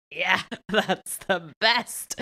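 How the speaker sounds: slow, drawn-out praise broken by a laugh. Retold or imitated. Playing foreigner about Italian food, laughing. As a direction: stretch it out, laughing at your own pretence. Laughing while retelling her pretence.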